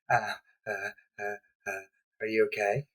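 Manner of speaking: hesitant. Acted. Lizard man stammering over his hurt friend. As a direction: fumble the words, unsure.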